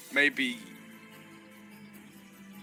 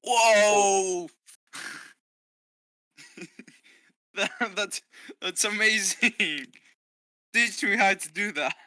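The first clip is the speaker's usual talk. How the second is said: amazed; 6 semitones higher, 5 dB louder, slower than usual. Real, not acted. Player amazed at dance.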